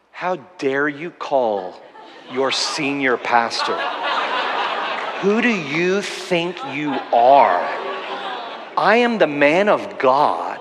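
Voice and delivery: slow, mock-offended pastor playing the big man; hammed-up outrage at being called out; a pretend indignant senior pastor, drawn out; mock pompous rebuke. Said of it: "you know what my response was?".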